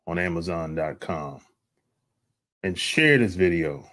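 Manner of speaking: lightly announcer-like sign-off; outro promo read. Acted. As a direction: pitch the book and sign off.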